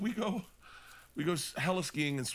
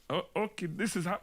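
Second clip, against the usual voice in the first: bad attempt at English accent, slipping into Swiss; higher-pitched botched English accent; muddled English accent; 5 semitones higher than usual. Man in England starting a beach demonstration, muddled accent. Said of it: "I don't know what accent I'm doing".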